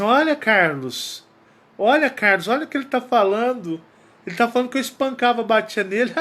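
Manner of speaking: a hint of an amused mother brushing it off. Mother voiced laughing it off.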